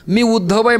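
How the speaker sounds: आहे lifted high and proud, rising at the end; arrogant self-introduction. Shown as a demonstration. Uddhav announces himself to the gopis with arrogance. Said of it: "हा कोणीतरी अहंकारी आहे".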